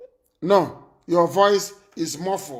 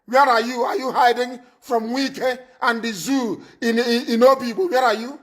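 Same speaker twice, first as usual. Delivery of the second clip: raised, higher-pitched demand to a faint caller; calling out; 5 semitones higher than usual. Real, not acted. Host demanding a hiding caller speak up, calling out. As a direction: call out insistently to someone you can barely hear.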